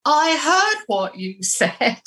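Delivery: high, drawn-out mock indignation; very indignant man. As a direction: imitate an affronted ghost, stretching the words. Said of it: "a man's very indignant voice saying".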